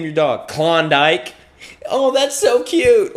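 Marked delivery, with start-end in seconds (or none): 1.9-3.1 slow, high-pitched mock gush; gushing coo. Passerby hears dog is called Klondike, gushing coo. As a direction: coo over it in a put-on high voice. Acted gushing over dog's name.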